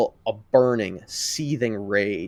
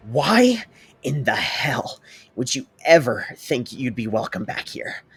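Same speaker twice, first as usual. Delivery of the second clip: blunt; 3 semitones higher, 4 dB louder than usual. Acted. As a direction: hiss it inches from his face. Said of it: "he says bluntly".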